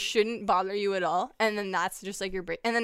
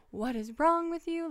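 exasperated at the cat; 7 semitones higher than usual. Retold or imitated. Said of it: "so annoying today".

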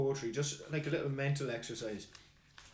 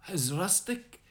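an amateur Scottish brogue, declaimed with gusto; a modest Scottish accent, performing the poem for a friend. Acted. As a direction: recite Burns in a lightly put-on Scottish accent. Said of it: "excuse the poor Scottish voice, but I think it needs to be said in a Scottish voice".

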